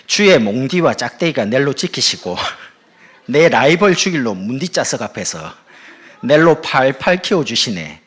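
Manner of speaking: loud, hearty Gyeongsang dialect. Acted. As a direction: belt it out in broad Gyeongsang dialect. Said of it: "경상도 버전으로 제가".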